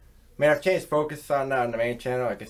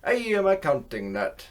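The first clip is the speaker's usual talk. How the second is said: bad Italian accent; 4 semitones higher than usual. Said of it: "Try and do Italian accent".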